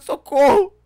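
panicked yell for help; screaming while falling. Real, not acted. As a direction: shout it as you drop. Falling off into the void.

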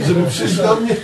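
high and loud, laughing through it; laughing tease. Retold or imitated. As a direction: laugh while teasing her. Teasing, laughing. (śmiejąc się, wysoko i głośno)

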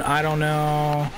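slow, dopey mock voice dragged out; lightly voiced slow mockery of a troll; mock dumb troll. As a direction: drag it out like a clueless troll. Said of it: "and then I get an".

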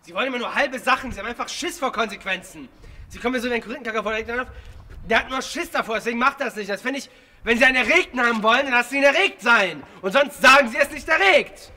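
furious rant at the director; berserk rage. Real, not acted. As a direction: lash out, voice climbing. Actor berating director on set.

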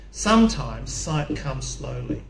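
weak, slow voice, drawn out. Real, not acted. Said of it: "my voice is weak today".

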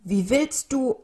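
puzzled and doubting; incredulous. A narrator's reading. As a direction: ask in disbelief. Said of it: "fragte der schwarz-weiße Vogel ungläubig".

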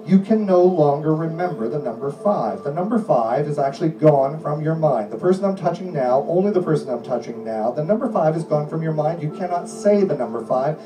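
steady, insistent hypnotist delivery; hypnotic suggestion voice. Acted. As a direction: lull them in with firm calm commands.

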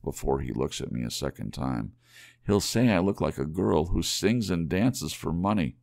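lightly voiced young wife, anxious; a touch of worry, talking to herself; Della fretting. Young wife frets at the mirror over money, lightly worried.

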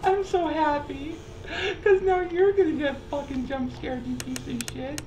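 high, gleeful mock threat, near shrieking; gleeful taunting. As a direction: taunt him with manic glee. Friend taunting player, mock menace.

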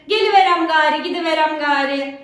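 a touch of rural Aegean Turkish accent. Shown as a demonstration. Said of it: "Ege şivesi". (hafif Ege şivesiyle)

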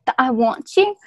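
mock Derry Irish accent; put-on Northern Irish accent. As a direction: go full Derry Girls Irish. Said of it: "I'm going full Derry Girls".

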